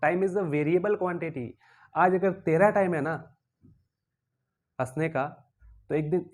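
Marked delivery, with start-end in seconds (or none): 0.0-1.5 each word laid out slowly like a warning; slow and weighty. Acted. Teacher slowly warns the laughing cathode, weighty and deliberate. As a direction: spell out the lesson word by word.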